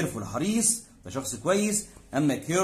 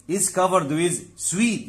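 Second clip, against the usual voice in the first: slow teaching read; 3 semitones higher, much slower than usual. Shown as a demonstration. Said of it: "teacher reads English example".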